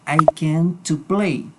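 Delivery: slow wrong example; wrong form. Shown as a demonstration. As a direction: read out slowly as the wrong way. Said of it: "no se puede hacer lo siguiente".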